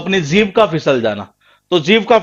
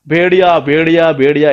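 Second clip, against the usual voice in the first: mildly raised, evenly repeated call; mock wolf cry; 3 dB louder than usual. Shepherd giving villagers a false warning, mild mock cry. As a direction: imitate the shepherd's alarm in quick repeats. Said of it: "ऐसे तो चिल्लाया था ये".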